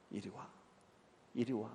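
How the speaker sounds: soft calling. Retold or imitated. Mother softly calls her son's killer to her, quiet and gentle. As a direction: call him over softly, holding back tears.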